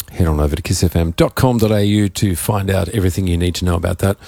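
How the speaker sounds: hoarse, croaky throat. Real, not acted. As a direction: talk through a croaky voice. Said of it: "Excuse my croaky voice".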